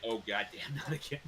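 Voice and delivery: imitation of unscripted dismay; genuine exasperation. Shown as a demonstration. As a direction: say it like it really just happened. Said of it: "It was a genuine".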